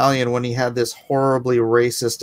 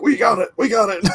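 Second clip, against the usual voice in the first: excited retelling; 9 semitones higher than usual. Retold or imitated. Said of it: "they're like".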